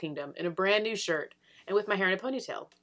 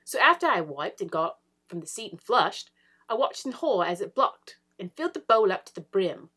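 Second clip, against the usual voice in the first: excited British accent, rising higher; 4 semitones higher, 4 dB louder than usual. Shown as a demonstration. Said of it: "I think the accent made that".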